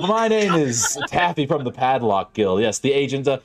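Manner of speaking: a lightly voiced, eager pitch with a lift; salesman pitch. Taffy pitching the Padlock Guild to Craig, eager and slick. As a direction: sell security like it's a miracle.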